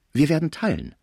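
a greedy concierge jumps in; lively. A narrator's reading. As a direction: blurt out the offer eagerly. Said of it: "sagte sie lebhaft".

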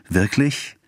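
high, delighted question; laughing delight. A narrator's reading. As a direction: ask it with playful delight. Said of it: "fragte sie in lachender Wollust".

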